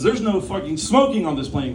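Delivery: angry retort. Acted. Retold angry retort to captain.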